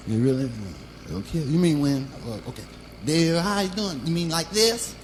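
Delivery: put-on pinched childlike voice; little kid voice. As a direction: squeeze it into a small kid's voice. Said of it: "talking like a little kid".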